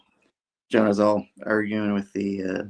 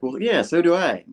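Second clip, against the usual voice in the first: quoting Harry; 9 semitones higher than usual. Retold or imitated. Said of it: "And Harry's like".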